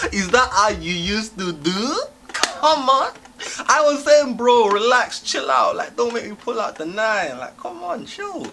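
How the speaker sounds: high, loud hammed-up outrage; mock tough talk, pitched very high; indignant protest. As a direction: protest as if badly wronged. Imagined protest at rough handling.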